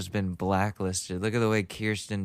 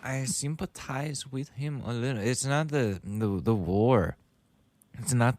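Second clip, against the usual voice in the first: imitated German accent; 3 semitones higher than usual. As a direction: echo him in a rough German accent. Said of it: "I'm trying to imitate this specific guy".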